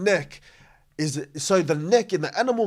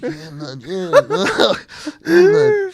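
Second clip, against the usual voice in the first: casual bloke voice; 4 semitones higher, 6 dB louder than usual. Shown as a demonstration. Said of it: "if I'm talking like this".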